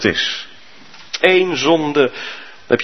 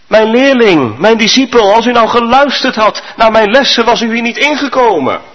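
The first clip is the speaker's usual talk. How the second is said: a hint of a stern old master, pitched higher; a teacher who says I told you so; lofty sage; 8 semitones higher than usual. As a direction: Confucius lecturing his pupil, raised a little. Confucius scolds man in pit.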